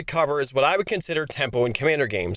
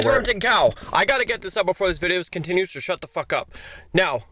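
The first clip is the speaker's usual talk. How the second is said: robotic computer voice; old speech synthesizer. Acted. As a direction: talk like an old text-to-speech. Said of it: "there is a face to this obnoxious voice".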